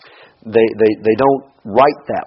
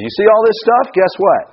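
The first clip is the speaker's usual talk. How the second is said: Jesus warning; 11 semitones higher, 5 dB louder than usual. Retold or imitated. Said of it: "And Jesus says".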